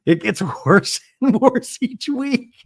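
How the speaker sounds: lightly put-on Gina accent, slowed; hint of Gina's accent, laughing; Gina impression. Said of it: "my Gina accent".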